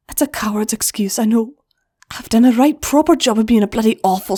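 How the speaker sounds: a hint of a remorseful big sister; Flash's voice. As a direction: own the guilt. Flash apologizes, then questions.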